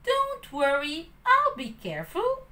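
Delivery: high, breezy reassurance; reassuring puppet. Acted. Pinocchio reassuring Jiminy at the cage, high breezy. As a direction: wave off his friend's worry. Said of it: "the puppet replied".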